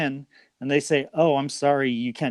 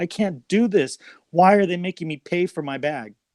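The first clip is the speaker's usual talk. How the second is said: put-on tearful sobbing with yelling, female voice; 4 semitones higher than usual. Retelling a woman in line yelling at her husband on the phone, imitating crying and yelling. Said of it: "she's just crying, and she's yelling at her husband".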